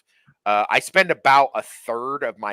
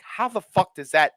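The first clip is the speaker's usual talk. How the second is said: baffled retort; 10 semitones higher than usual. Retold or imitated. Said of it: "I'm like".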